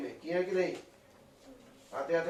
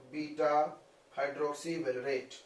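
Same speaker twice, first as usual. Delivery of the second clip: slow dictation; 2 semitones lower, 5 dB quieter, much slower than usual. Shown as a demonstration. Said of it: "अब तुमको समझा होगा इसका full form".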